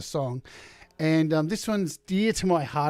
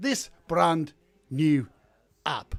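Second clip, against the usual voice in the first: stilted phrasing with pauses at line ends. Imitating how a known presenter talks: Patrick Baird's stilted line-end pauses. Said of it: "pauses at the end of each line".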